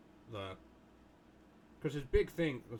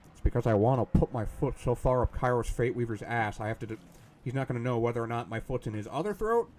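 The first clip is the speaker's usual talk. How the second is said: loud, fired-up boast; loud rant; 3 semitones lower, 8 dB louder than usual. Real, not acted. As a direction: bellow the threat with gusto. Ranting about crushing the enemy.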